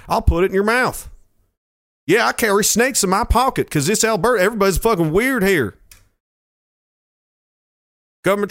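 a lightly voiced tough Albertan cowboy; Albertan cowboy accent. Albertan cowboy threatening an outsider in a rural Albertan accent. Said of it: "I always go to some weird".

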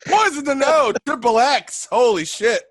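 excited high announcer call; hype intro. Acted. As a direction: pump the crowd up.

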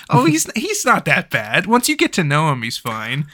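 brushing it off, imitated; mock excusing. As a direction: play the defensive apologist, pitch up then settling. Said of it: "how do you be like".

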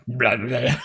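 silly creature noise. Acted. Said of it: "And Chirpy's like".

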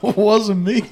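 high, loud, sing-song "not me"; playing innocent with a laugh; acting the innocent one; mock innocent denial. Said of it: "I go".

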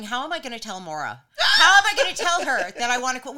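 mock fretting self. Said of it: "I was walking around today going".

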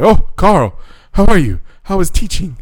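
high, cheery greeting; chirpy old man. Retold or imitated. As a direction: greet Carl brightly.

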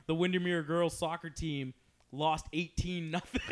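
slow, measured mock announcement; school announcer. Student announcing the soccer result to the school, slow announcer delivery. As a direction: read it out as a deadpan school bulletin. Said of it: "I used to do the announcements".

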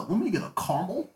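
mocking friend's pronunciation. Ordering caramel to tease a friend, mocking imitation. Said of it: "That's how you sound".

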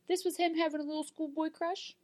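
high, laughing and soft. Real, not acted. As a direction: giggle through it. Laughing about a crush.

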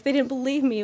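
high, loud, overwrought belle; Southern Belle. Retold or imitated. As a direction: lament it like a melodramatic Southern Belle. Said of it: "He sounds like a Southern Belle".

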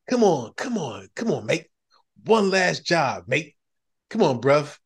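hammed-up English accent, pleading; fake English accent. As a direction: coax a mate in a put-on English accent. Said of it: "That's my fake English accent".

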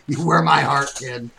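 mock tender. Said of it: "in the movie".

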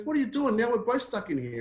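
very high-pitched aghast protest; acted exasperated disbelief. Stuck bloke to mate who jumped in, acted exasperated disbelief. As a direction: squawk in dismay at a mate's folly.

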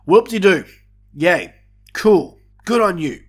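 dry mock cheer, unimpressed; sarcastic. Real, not acted. Sarcastic reaction to a late save.

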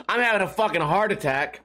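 ordinary delivery

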